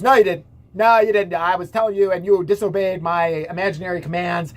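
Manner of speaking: lightly voiced officer, loud at first; hint of forceful contradiction; mock stern officer. Officer overruling the teacher, mock stern. Officer argues back in story.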